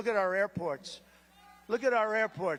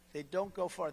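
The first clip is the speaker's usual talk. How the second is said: mocking repeat; 5 dB quieter than usual. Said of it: "That sounds so basic".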